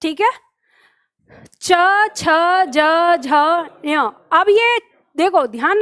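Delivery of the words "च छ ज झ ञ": च, छ, ज, झ, ञ each said apart and clearly; palatal letters demo. Shown as a demonstration. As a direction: sound out च छ ज झ ञ for the class to repeat. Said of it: "मेरे साथ बोलो". (च, छ, ज, झ, ञ का अलग-अलग स्पष्ट उच्चारण)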